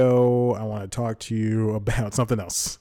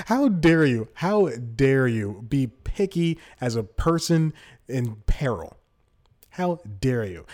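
mock indignation; 2 semitones higher, slower than usual. Indignant rant at beggar.

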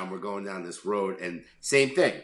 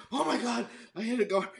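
much higher, startled cry; shocked exclamation; 13 semitones higher, faster than usual. Retold or imitated. Driver realizing the dog hit his car, high startled cry. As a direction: blurt it out in mock panic. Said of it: "And I was like".

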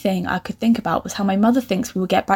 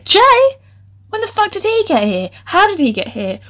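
shocked disbelief; 10 semitones higher than usual. Real, not acted. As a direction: react aghast, pitch shooting up. Shocked by ex turning up.

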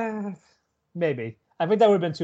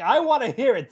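eager; 9 semitones higher than usual. Retold or imitated. Voicing pervy friend.

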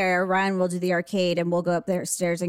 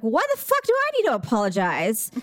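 retold attitude. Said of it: "raising my voice and I was, like, being total attitude".

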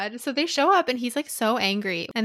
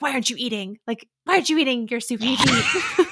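mildly aggressive imitation of an order; half-joking, pushy scolding; mock aggressive; 3 semitones higher, 4 dB louder than usual. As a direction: push the demand harder as it goes.

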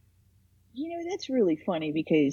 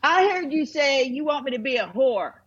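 tag; 5 semitones higher than usual. Acted. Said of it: "And then she'll say".

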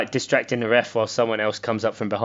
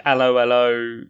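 put-on German accent. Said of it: "softly spoken German".

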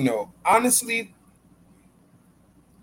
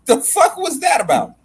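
laughing disbelief; 11 semitones higher, 5 dB louder than usual. Retold or imitated. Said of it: "I said".

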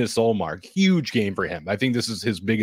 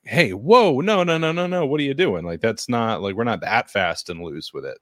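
alarmed shout; 2 semitones higher than usual. Retold or imitated. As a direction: yell it like a panicked fan. Fans yelling at team in quote.

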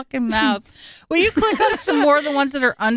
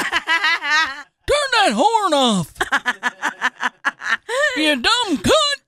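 mock yelling; 2 semitones higher, much slower than usual. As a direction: yell at someone in a parking lot. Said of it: "he's yelling at you in the parking lot".

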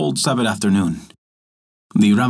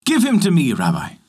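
king cries out eagerly, higher; eager, delighted demand from the king; delighted cry; 5 semitones higher than usual. A narrator's reading. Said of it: "he cried".

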